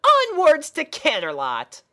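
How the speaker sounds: put-on a chirpy girl pony puzzled by her steed; squeaky cheerful pony; pony princess voice.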